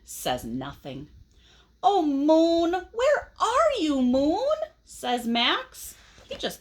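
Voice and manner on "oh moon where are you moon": calling out. A narrator's reading. Max calls out for the moon.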